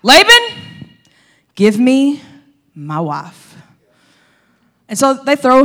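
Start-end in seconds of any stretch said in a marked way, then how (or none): 0.0-3.6 impatient groom finally claiming his bride; eager demand. Retold or imitated. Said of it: "he's like".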